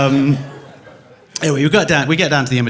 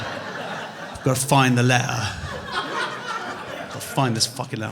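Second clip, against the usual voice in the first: obsessive fading mutter; 6 dB quieter, slower than usual. Retold or imitated. Repeated thought fading to mutter.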